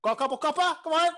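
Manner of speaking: loud, high demand for payment; demanding orc innkeeper. Acted. Orc barkeep slams down a key, loudly demanding coin. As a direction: bark it impatiently. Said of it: "He slams down a key".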